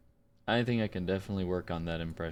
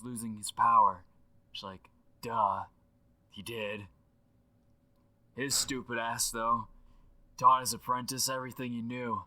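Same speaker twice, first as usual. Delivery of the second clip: animated, slangy dude rambling on a voicemail; Aaron Paul impression through a phone line; excitable legend left as a phone message; voicemail effect. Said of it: "With the voicemail effect".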